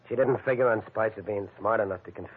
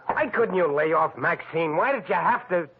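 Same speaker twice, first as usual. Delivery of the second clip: anguished plea; 9 semitones higher, 4 dB louder than usual. Acted. Pleading, broken, accused by friend.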